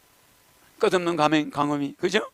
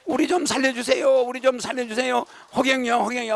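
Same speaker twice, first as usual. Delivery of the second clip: pleading cry; 3 semitones higher than usual. Retold or imitated. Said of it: "하고 막 불러 제끼는 거야".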